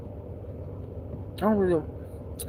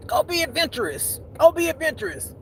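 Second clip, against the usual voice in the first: lightly hammed-up, higher-pitched pep talk; acted self-urging; 7 semitones higher than usual. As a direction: urge yourself on in a high mock voice. Urging herself in acted quote.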